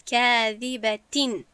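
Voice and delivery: slow کاذبتین, ending in a clean sounded n; clear tanwin. Shown as a demonstration. Teacher contrasts two words for students, izhar on کاذبتین. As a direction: recite کاذبتین with a distinct, unblended final n. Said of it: "از برای فرق کردن برای شما".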